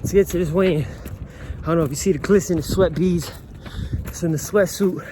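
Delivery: talking while jogging, breathing hard; while running. Real, not acted. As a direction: speak mid-run, puffing between phrases. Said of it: "I'm currently running".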